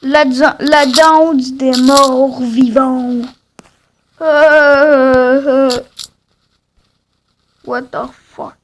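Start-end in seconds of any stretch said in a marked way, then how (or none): 0.0-3.2 slow announcement. Acted. Announcing the dance title.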